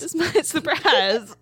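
slow, dramatic drawn-out teaser; hammed-up teaser. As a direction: drag it out like a movie trailer. Hamming up own teaser.

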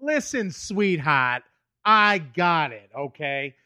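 slow, drawn-out patronizing tone; slow condescending Boston guy. Shown as a demonstration. Boston guy brushing off woman, slow condescension. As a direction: talk down to her slowly. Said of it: "where you're like".

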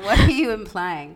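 laughing while mock offended; half-laughing, playfully outraged; laughing indignation. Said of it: "But I was like".

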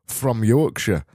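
hammed-up Yorkshire accent; attempted Yorkshire. Host answers listener Tom in attempted Yorkshire. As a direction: keep up a mock Yorkshire accent. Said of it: "attempting to do a Yorkshire accent".

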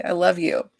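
playful scolding of a friend; teasing Andy. Retold or imitated. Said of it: "And I just was like".

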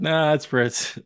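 imitating Mookie.

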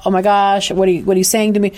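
fast, mildly alarmed mock panic; retold freak-out. Client hearing her daughter is in danger, quick mild panic. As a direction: rush it like a shocked mother. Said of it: "she flips out".

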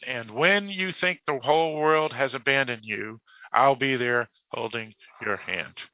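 measured quote reading, slowing at the end; deliberate literary read-aloud. Real, not acted. Reads a book quote.

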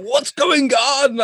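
high, slow, baffled mock question; confused. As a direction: drag it out, bewildered and a little mocking. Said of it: "I was like".

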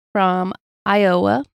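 "Iowa" slow, emphasis on the O, lifting at the end; stress on Iowa. Real, not acted. Telling listeners of another story, stress on Iowa. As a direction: draw out "Iowa" with a big O. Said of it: "You put a lot of emphasis on".

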